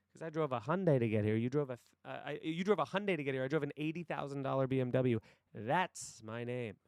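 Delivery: fast run, slowing hard on the final phrase; acted boastful put-down. Boss boasting about his car to a salesman, acted contempt. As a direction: rub their nose in it, lightly acted.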